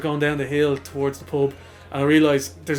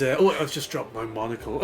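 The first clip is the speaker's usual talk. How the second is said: posh voice; 4 semitones lower, 5 dB quieter than usual. Retold or imitated. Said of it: "put on my poshest voice ever".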